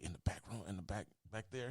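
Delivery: hushed, leaning-in confidence; retold whisper. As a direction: drop the voice right down, as if sharing a secret. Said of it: "I leaned over and I whispered".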